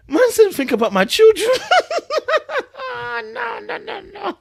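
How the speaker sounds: losing it completely; laughing so hard it nearly turns to crying; helpless laughter. Real, not acted. Laughing at the quoted text.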